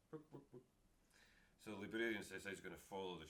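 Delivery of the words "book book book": high clucking hen going book book book; chicken clucking. Acted. Chicken in the story.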